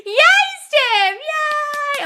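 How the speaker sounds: high, loud squeal of joy; cheering squeal. Real, not acted. Cheering a viewer's compliments with a high, loud squeal. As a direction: cheer as if clapping along.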